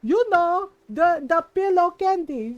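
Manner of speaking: a mock-mad mother repeating herself; mom got mad. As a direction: insist on it like an irritated mom. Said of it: "and my mom got mad".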